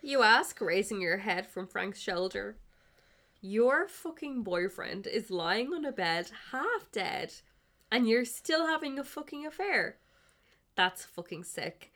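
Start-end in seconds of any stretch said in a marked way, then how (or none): 3.4-11.9 angry outburst. Acted. Player voicing Ray's angry outburst.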